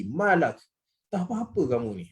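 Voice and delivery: "Ma lak" thrown out high, then falling; pointed, high-pitched "Ma lak"; high-toned challenge. Shown as a demonstration. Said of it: "nada tinggi".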